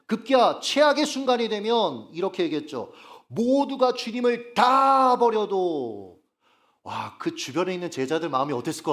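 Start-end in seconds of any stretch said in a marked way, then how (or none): 3.3-6.2 loud, high, drawn-out declaration; emphatic vow. Acted. Peter vows loyalty to Jesus, emphatic and drawn-out. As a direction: stretch the words out loud and high in a sweeping vow.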